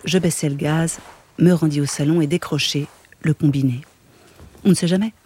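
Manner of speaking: steady, even reading of a novel; calm literary narration; story narration. A narrator's reading. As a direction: read the chapter aloud, unhurried. Reads a Murakami novel aloud.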